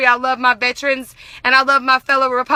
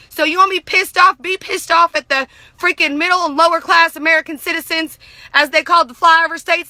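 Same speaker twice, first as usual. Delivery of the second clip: getting worked up; 2 semitones higher than usual. Real, not acted. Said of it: "And I'm getting really excited".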